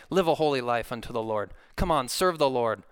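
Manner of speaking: mock-pushy string of urgings, pitch lifting as it goes; nagging exhortation. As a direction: imitate someone pressing people into duty. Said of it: "yanking your arm and saying".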